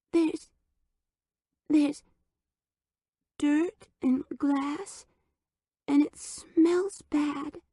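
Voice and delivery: put-on high, slow little-kid voice; tiny lisping voice in the dark; frightened toddler. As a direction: whimper like a lost toddler. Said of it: "She began to sob".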